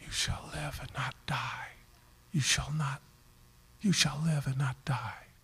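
very quiet, whisper-like, close to the ear. Retelling a minister's words to a young man lying in the aisle: imitating a whisper. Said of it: "spoke very quietly, like a whisper in his ear".

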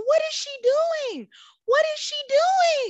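high-pitched, shrill, loud, frantic panic. Retelling watching their mom ask a restaurant hostess for the manager, acting out their panic. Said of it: "I'm panicking".

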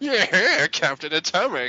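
high, loud, swooping cartoon-villain voice. Imitating a voice actor's mustache-twirling villain role: imitating a mustache-twirling villain. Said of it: "twirling his mustache, just like".

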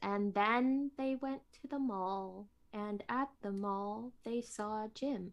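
flat, lifeless, dull narration voice. Speaker demonstrating a bad audiobook recording, lifeless audiobook narration. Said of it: "people talk like this".

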